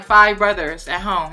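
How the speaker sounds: slow, deliberate FIVE brothers; slow down and lean on five; stress on five. Retold or imitated. Woman turning down her date's invitation, stressing five. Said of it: "I keep emphasizing five brothers".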